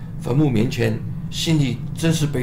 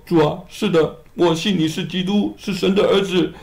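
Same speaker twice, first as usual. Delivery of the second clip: higher pleading voice for Martha; higher-voiced sister, gently reproachful; grieving Martha; 5 semitones higher than usual. Martha answers, high voice.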